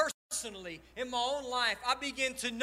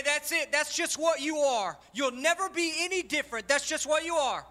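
judgmental people; 4 semitones higher, 4 dB louder than usual. Retold or imitated. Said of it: "people that will write you off and say".

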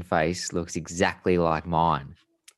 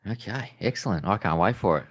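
dry sarcastic "excellent"; 3 semitones higher than usual. Acted. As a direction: fake enthusiasm. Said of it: "I know you're being sarcastic now".

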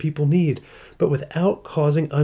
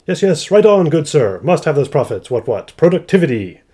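hammed-up upper-class British approval; terrible British accent; 3 semitones higher, 6 dB louder than usual. Economist nodding along to the podcast, terrible British accent. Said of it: "apologies to British people for my terrible British accent".

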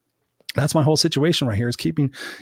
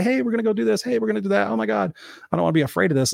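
higher-pitched, eager mock chatter; excited; 7 semitones higher, faster than usual. Motivational speaker acting out choosing excitement over fear, excited. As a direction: act out eager anticipation.

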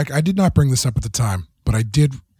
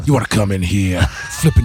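gravelly Deadwood voice; 4 semitones lower than usual. Pretend. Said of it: "a great gravelly Deadwood voice".

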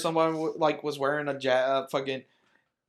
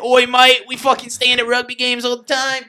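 mock Australian, higher and louder; hammed-up Aussie rugby fan; Australian accent; 7 semitones higher, 7 dB louder than usual. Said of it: "you have the Australian".

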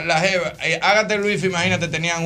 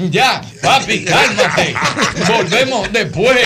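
mock-tearful consoling, higher and drawn out; imitated crying; 4 semitones higher, much slower than usual. Consoling the boy after the visa refusal, mock crying. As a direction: console through exaggerated sobs, swooping in pitch. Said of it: "Los dos llorando".

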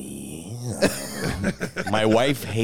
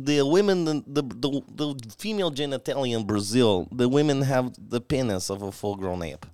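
light mock Brazilian accent; half-laughing Brazilian accent; 3 semitones higher, 3 dB quieter than usual. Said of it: "Brazilian accents".

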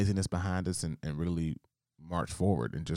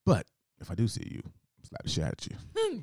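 mock threat; 5 semitones higher than usual. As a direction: stretch the mock threat, ending high on "slap the shit out of you". Mock threat, first take.

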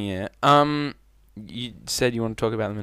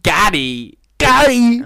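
shouting a name, rising high; calling out; 13 semitones higher, 11 dB louder, much slower than usual. Real, not acted. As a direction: yell the name across the room. Calling out to someone.

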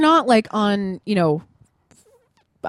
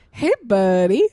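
friendly greeting; 5 dB louder, slower than usual. Retold or imitated. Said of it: "not like he was laughing at him".

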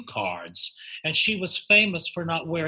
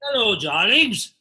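campy drag queen; 5 semitones higher, 5 dB louder than usual. Acted. Guest greets hosts theatrically.

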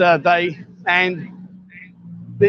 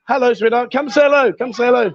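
coaxing; 5 semitones higher than usual. Real, not acted. Coaxing girls to greet camera.

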